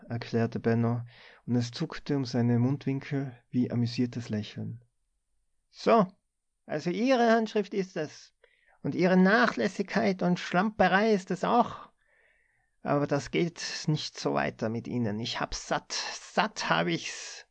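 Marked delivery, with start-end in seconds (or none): 5.7-17.5 higher, hissed contempt easing into weary disgust; mock his excuse, then say you're fed up; scornful scolding. A narrator's reading. Boss scolds Benno.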